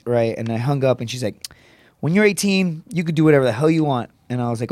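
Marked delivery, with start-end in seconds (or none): 2.0-4.1 higher-pitched imitation of mom's lecture; mom laying down the law. Mom lecturing her teenage son about curfew, scolding. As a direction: lay it down like an exasperated mother.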